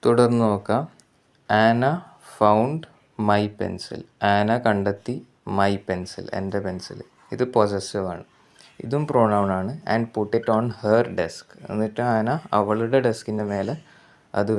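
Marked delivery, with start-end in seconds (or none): 1.5-4.0 found my pencil, drawn out very slowly word by word; slow dictation. Shown as a demonstration. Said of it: "teacher reads example sentence". 9.9-11.5 very slow, word by word, for students; slow dictation. Shown as a demonstration. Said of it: "teacher reads example sentence".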